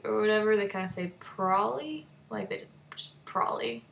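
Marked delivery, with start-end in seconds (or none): 1.2-3.8 mock cute probably. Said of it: "trying to be, like, cute".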